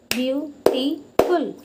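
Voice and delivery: "beautiful" slowly, beau-ti-ful with a pause after each syllable; syllables for clapping. Shown as a demonstration. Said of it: "you can clap every time you pronounce".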